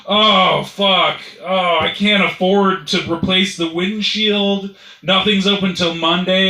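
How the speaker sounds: high, loud, slow moaning complaint; hammed-up whining dismay; distraught driver. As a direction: lament it like a man fretting over money. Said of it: "the dude in the fucking station wagon was still like".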